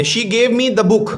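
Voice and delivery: each word of "she gave me the book" drawn out slowly; slow, careful classroom reading; slow dictation reading. Shown as a demonstration. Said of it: "teacher reads example sentence".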